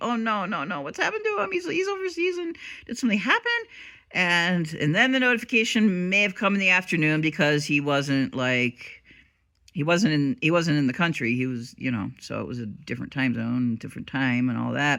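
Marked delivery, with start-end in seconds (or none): 0.0-3.5 very high, swooping, panicking, worried voice. Retelling waiting for a late video notification: imitating own past panic. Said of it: "like, panicking".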